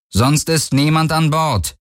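a touch of doubt in a drawn-out assurance; slightly unsure. A narrator's reading. Akina covering for the stowaways over the comm, slightly unsure. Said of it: "einen Hauch von Unsicherheit in der Stimme".

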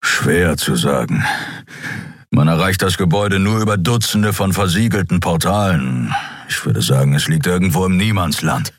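a lightly voiced gruff beast, grave; a hint of a brooding creature; Skria Keru. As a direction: confess it heavily, like a guilty giant. Keru explains the palace.

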